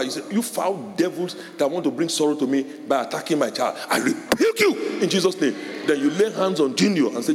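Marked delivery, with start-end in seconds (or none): 0.3-5.5 rebuking devils. Shown as a demonstration. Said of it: "take authority over whatever".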